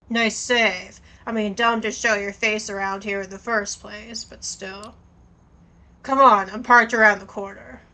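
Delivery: a hint of a gravelly street contact; just a touch of gravel on the voice; lightly gravelly contact. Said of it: "the gravelly voice sure does".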